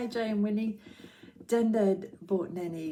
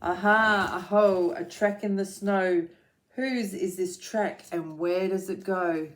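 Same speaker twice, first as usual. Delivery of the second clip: loud, bright little explorer; louder thrilled exclamation; excited discovery; 5 dB louder than usual. Acted. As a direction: call out the find with glee. Gruffalo's child finds a track.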